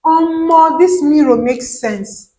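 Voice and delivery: Nigerian pidgin. Shown as a demonstration. Showing fans how Nigerians say it, Nigerian pidgin. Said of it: "maybe I want to say".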